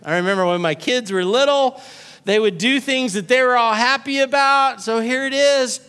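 usual speaking voice

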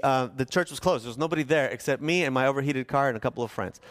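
normal talking voice

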